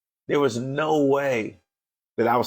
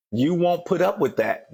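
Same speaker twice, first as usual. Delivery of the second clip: "You won't put up with that" pitched higher, leaning on "up"; rising preacher emphasis; 6 semitones higher than usual. Acted. Preacher pressing the point to listeners, "up" stressed higher. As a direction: repeat it higher and hit "up" hard.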